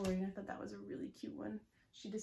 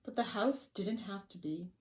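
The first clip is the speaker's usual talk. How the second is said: lively read-aloud with swooping emphasis; story narration; 7 dB louder, slower than usual. A narrator's reading. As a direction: tell it to small children, playfully. Reads a picture book to children.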